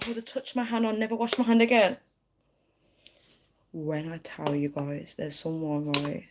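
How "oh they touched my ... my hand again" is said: obsessed fan. Acted. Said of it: "people are so obsessed with celebrities".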